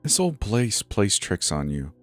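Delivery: slow, soft reassurance; softened, unhurried comfort; assuring. Acted. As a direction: gently reassure a shaken worker. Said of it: "she assured".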